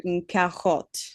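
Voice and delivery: "une carotte" with a throaty French R; French pronunciation. Shown as a demonstration. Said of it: "like I had said earlier".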